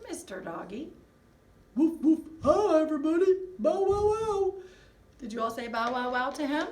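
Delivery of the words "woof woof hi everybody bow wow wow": loud, high barking dog puppet. Pretend. Dog puppet barking hello to the class. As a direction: bark hello as the puppy.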